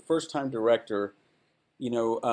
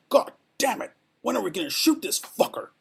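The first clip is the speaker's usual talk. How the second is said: mock irritated yell; exasperated outburst; 10 semitones higher than usual. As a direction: blow up at the delay. Coburn swearing, retold.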